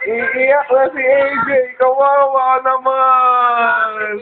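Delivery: slow drawn-out mock pity. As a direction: tease gently, stretching kawawa.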